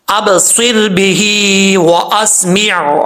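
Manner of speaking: heavy saad, then a full ain ending "وَأَسْمِعْ"; final ain sounded. Shown as a demonstration. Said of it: "یہ عین کی آواز آ رہی ہے". ("وَأَسْمِعْ" کی عین واضح کر کے)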